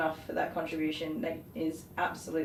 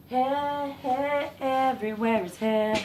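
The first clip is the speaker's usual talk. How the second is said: louder and higher, exasperated; exasperated exclaiming; 7 semitones higher, 5 dB louder, slower than usual. Real, not acted. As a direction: cry out at the mess of hair. Dog hair flying everywhere.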